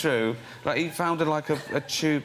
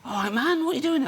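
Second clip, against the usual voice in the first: rowdy Brit abroad; 11 semitones higher than usual. Retold or imitated. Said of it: "Brits abroad".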